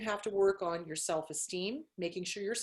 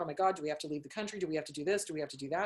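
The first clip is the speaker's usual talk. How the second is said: rapid-fire low-pitched rattle of worried questions; mock freaking out; 5 semitones lower, much faster than usual. Therapist imitating her panicking clients, mock freak-out. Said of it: "they were just freaking out".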